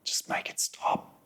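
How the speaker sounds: soft unvoiced whisper of giving up; whispered inner voice. The old fear pattern whispering to give up. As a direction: breathe it like a defeated thought. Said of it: "the old pattern says".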